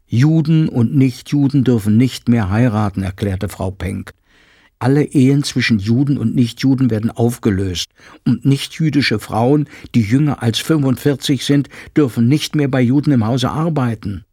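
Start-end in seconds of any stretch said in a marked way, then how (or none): 0.1-3.0 louder, higher voice of a housekeeper spelling out bad news; urgent housekeeper. Frau Penck announces the new law. 4.8-14.3 louder, higher voice of a housekeeper spelling out bad news; urgent housekeeper. Frau Penck explains the law.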